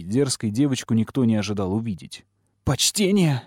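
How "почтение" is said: high squeal of outrage; high-pitched girlish yelp; indignant squeal. A narrator's reading. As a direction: squeal the word back in disbelief. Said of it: "взвизгнуло пламя".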